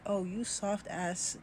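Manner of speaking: slow, soft and unimpressed; unimpressed dad. Retold or imitated. Jamaican dad eyeing the teacher who forgave, slow and unimpressed. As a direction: drag it out, sizing up a pushover. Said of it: "He looks at me like".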